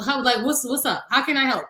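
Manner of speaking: mildly aggy, as if pestered; retold irritation. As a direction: act out being bothered by a call. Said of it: "And I get aggy".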